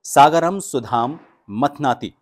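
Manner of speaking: "सागरम सुधाम मथनाति" slow and loud, every syllable clear; slow model recitation. Shown as a demonstration. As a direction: model it slowly for learners. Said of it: "इसका उच्चारण आपको कैसे करना है".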